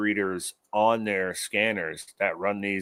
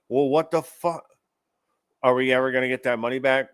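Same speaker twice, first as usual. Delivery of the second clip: mock public outrage over lost money; imitating outrage; 2 semitones higher than usual. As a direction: play the fed-up public demanding answers. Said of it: "the outrage is there".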